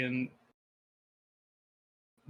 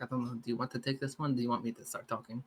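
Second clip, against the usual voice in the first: hushed, softer aside; whispering; 2 semitones lower, 7 dB quieter, faster than usual. Acted. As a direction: lean in and say it under your breath. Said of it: "whisper to, to Doc".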